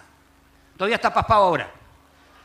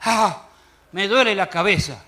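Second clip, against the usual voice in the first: feigned headache. Pretend. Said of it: "yo digo".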